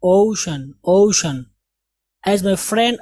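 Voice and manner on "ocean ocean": "ocean" said as oh-shun, first vowel long o; correct reading. Shown as a demonstration. Teacher drilling the class: "ocean" as oh-shun, firm. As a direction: say "ocean" oh-shun, clearly and firmly. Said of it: "इसको क्या पढ़ेंगे".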